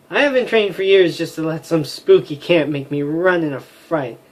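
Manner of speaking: lightly voiced brave fighter; defiant warrior vow. Warrior refusing to flee, mildly defiant.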